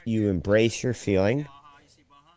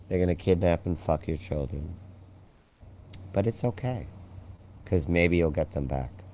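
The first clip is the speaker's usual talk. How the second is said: a low, calm delivery of bad news; 4 semitones lower, 6 dB quieter than usual. Shown as a demonstration. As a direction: say it evenly, as if soothing. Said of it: "say it in a low tone".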